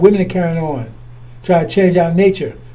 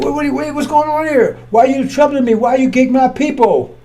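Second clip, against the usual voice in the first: higher, startled demon demanding answers; a cornered spirit caught off guard, voice jumping up; mock alarmed protest; 5 semitones higher than usual. Demon confronted by the messenger.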